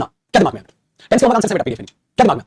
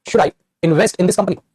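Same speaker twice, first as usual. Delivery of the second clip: very slowly ask the question word by word; drawn-out demo question; much slower than usual. Shown as a demonstration. Teacher slowly modelling a question to students. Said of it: "अब मैंने कहा".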